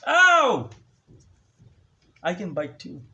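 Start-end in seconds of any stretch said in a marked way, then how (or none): 0.1-0.7 loud, high real ow; sharp real yelp. Real, not acted. Speaker yelps at the cat biting. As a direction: yelp when bitten.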